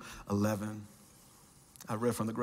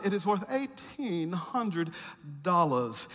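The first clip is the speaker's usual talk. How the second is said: snooty Brit; 5 semitones higher than usual. Retold or imitated. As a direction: ham up a snobbish British appraiser savouring the news. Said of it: "that snooty Brit look".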